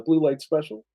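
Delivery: lightly acted store announcement; store PA announcer. Shown as a demonstration. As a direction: announce a sale over the store intercom, half in jest. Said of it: "you would go say something like this".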